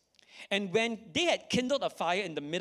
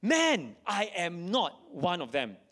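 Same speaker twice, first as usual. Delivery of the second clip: Peter's denial; slower than usual. Acted. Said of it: "I don't know whether there's an accent there".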